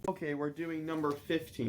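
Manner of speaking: flat, quiet robot voice. Pretend. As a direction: speak like a monotone robot. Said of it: "You sound like a robot".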